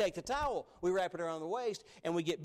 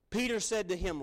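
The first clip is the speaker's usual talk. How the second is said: rising, disbelieving question to the Lord; stunned, slow disbelief; incredulous Peter; 5 semitones higher, 5 dB louder than usual. Shown as a demonstration. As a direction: ask it as if you can't believe He'd wash your feet. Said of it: "I'm gonna read it like I, like I envision it".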